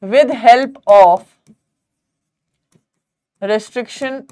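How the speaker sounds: very slow, broken into short pieces with long pauses; slow dictation. Real, not acted. Teacher writing out the step for students, slow dictation.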